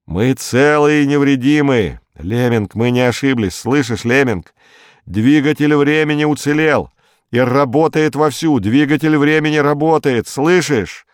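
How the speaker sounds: high, insistent triumphant report; excited calling out. A narrator's reading. Berkut telling Lemming the time engine survived, excited. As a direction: call the good news out over a radio link.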